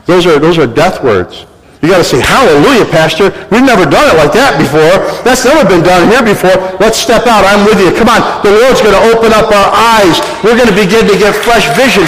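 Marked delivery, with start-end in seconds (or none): 2.2-12.1 eager believer. Retold or imitated. Voicing eager congregation member.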